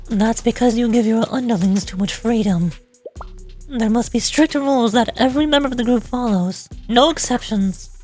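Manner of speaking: lightly voiced stern disciplinarian; strict game character. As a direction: lay down the rules with restrained severity.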